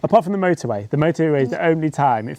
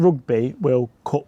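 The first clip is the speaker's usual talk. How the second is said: South African Rugby; slower than usual. Retold or imitated. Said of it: "they said".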